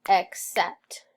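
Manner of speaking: "Accept" split as ac-cept; syllables snapped. Shown as a demonstration. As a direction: snap "Accept" into two beats. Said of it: "Snap it".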